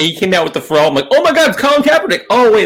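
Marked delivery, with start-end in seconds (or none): 1.1-2.6 surprised. Retold or imitated. Mistaking Luda on TV.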